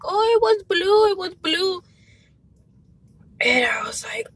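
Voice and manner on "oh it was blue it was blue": much higher imitation of a panicking child; mock panic. Mom voicing her son answering about the Lego, mock panic. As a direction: imitate a frantic son in a high voice. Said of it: "panicking, and he's like".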